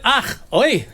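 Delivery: playful Yiddish-style groaning; mock Yiddish. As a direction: exclaim in a mock Yiddish accent. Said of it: "that's Yiddish".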